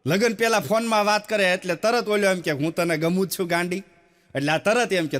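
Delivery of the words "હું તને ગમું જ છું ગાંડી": tender lover's tone. Retold or imitated. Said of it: "આખો tone અલગ હોય".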